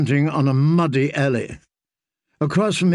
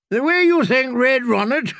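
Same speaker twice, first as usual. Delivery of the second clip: taunting jab; 11 semitones higher than usual. Acted. Hyle jabs back.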